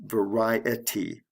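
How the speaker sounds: slow Variety, each syllable drawn out; va-RI-e-ty, stretched with stress on RI. Shown as a demonstration. Teacher showing the E T Y ending, Variety slowly sounded out. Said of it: "have an E T Y ending".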